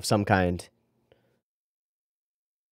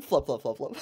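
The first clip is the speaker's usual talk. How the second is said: laughing; 3 semitones higher, 7 dB quieter than usual. Real, not acted. Laughing at fallen fighter.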